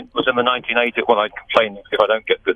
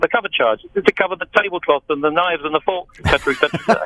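put-on light Italian accent, higher pitch; 4 semitones higher than usual. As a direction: lightly mimic an Italian waiter. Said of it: "in an Italian accent".

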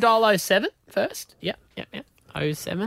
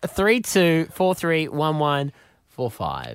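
slow dictation; slower than usual. Shown as a demonstration. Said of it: "reads number slowly".

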